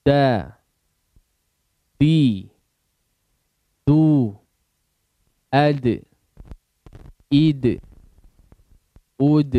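each syllable a single loud drawn-out call; drilled letter sounds. Shown as a demonstration. Teacher leading a recitation drill, loud calls.

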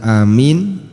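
"amin" with the m doubled; doubled mim. Shown as a demonstration. Teacher showing how people misread it, "amin" with doubled mim. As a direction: lengthen the m in "amin". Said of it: "mimnya ditasydid".

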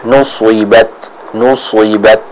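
heavy, full Arabic sad in nusuibat; thick shad. Shown as a demonstration. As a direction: say nusuibat with a thickened, emphatic S, almost "nu-swi-bat". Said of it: "agar terbaca dengan tebal".

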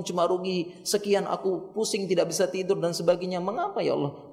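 acted plaintive lament; pleading to God. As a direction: lay the worries before God. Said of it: "Diadukan sama Allah".

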